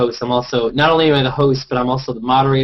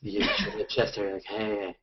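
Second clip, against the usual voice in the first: Ryan impression; 4 semitones lower, 9 dB quieter, slower than usual. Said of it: "My impressions are just usually Ryan".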